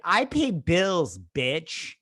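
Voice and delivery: loud, slow sassy retort. Retold or imitated. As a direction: spit back with attitude.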